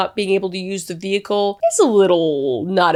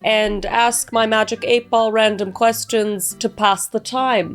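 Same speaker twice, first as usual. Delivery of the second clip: hammed-up, very shitty German accent; bad German accent; 2 semitones higher than usual. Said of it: "speaking in a very shitty German accent".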